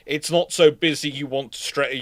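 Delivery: normal talking voice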